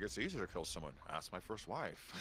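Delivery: understated deadpan killer, slowing at the end; psychopathic narrator. Retold or imitated. Imitating a reviewer's psychopathic character, low and understated. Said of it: "some kind of psychopathic murderer".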